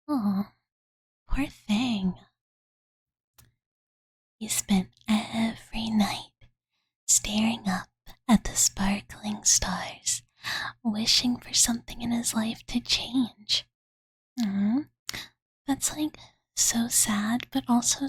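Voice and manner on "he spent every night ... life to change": whispered bedtime story. Acted. Fuari reading a fairy tale to sleepy Master, whispered. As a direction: lull them to sleep with the tale.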